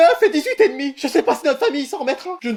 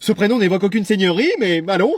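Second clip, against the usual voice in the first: low, lordly disapproval; haughty aristocrat; 6 semitones lower than usual. Acted. Noble parent judges the friend's name, haughty. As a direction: pronounce it grandly and low.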